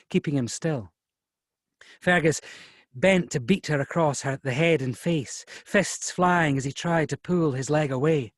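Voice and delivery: measured audiobook narration; story narration. A narrator's reading. Author's story read to an event audience, measured narration. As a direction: narrate the struggle in measured phrases. Reads novel aloud.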